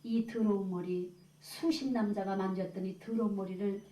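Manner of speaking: halting, mildly tearful imitation with long pauses; retold tearful confession. Shorn woman confessing to the churchworker, imitated tearful shame. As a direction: draw out the shame, lightly acting her tears. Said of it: "막 울면서 그래요".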